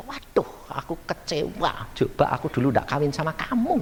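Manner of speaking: soft, sighing regret; a hint of a let-down wife murmuring; disappointed wife. Wife regretting the marriage to her husband, softly.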